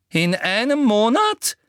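high, loud, quivering; trembling outrage. A narrator's reading. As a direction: shake with disbelief. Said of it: "zitterte Umbridge". (zitternd empört)

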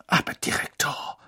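airy, spluttered objection; huffing with indignation; spluttering. A narrator's reading. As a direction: splutter in protest. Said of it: "prustete Madame Pomfrey".

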